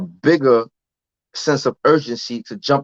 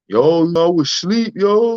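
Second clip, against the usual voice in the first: higher, drowsy imitation of the friend; mock groggy friend; 4 semitones higher than usual. Friend excusing himself on the phone, imitated groggy. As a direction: play the friend as just woken up. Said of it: "He like".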